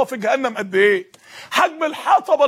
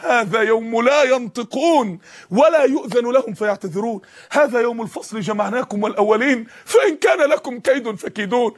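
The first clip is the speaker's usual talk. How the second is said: Quran recitation. Acted.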